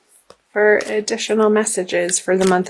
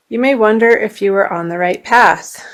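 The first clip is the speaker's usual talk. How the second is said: reading aloud; 3 semitones higher, 5 dB louder than usual. Acted. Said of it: "I will read to you".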